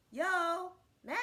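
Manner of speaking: high, loud hail; calling out. Acted. Cat calling up to Man on the path, loud hail. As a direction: holler up to someone. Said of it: "he called up to him".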